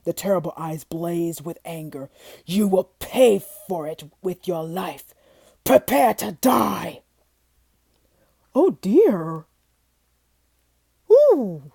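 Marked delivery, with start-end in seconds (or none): 2.5-7.0 slow, menacing monster voice; beast threat. Acted. Beast sentencing Mister Fortune to die, slow and menacing. 8.5-11.7 frightened gasp. Acted. Terrified man faces the Beast.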